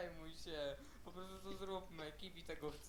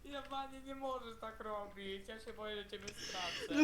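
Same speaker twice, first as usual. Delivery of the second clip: pleading; 3 semitones higher, 4 dB louder than usual. Acted. Pleading not to lose him.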